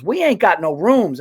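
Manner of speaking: loud, mock West Indian desk clerk; lightly put-on West Indian accent. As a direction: imitate a West Indian woman's refusal. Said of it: "I don't know, West Indian".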